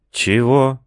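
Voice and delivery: high, stunned question; surprised. A narrator's reading. Narrator hearing the dog is leader, surprised. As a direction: caught off guard.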